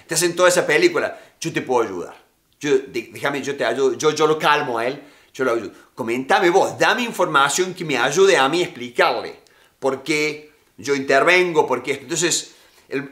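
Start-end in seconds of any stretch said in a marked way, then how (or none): 1.4-12.0 good cop. Retold or imitated. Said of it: "Y el bueno dice".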